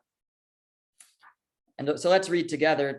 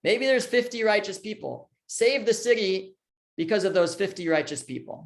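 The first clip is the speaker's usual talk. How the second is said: light pleading; 5 semitones higher than usual. Retold or imitated. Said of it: "Avram is pleading on behalf of Sodom".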